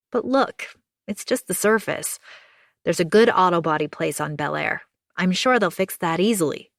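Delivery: kind neighbour, upbeat comfort; reassuring June. Acted.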